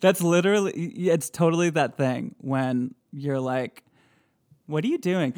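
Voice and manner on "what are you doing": mild teasing whine; mocking sibling. Teasing a sibling about not knowing what to do. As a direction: taunt like a bratty sibling. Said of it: "a sibling making fun of someone".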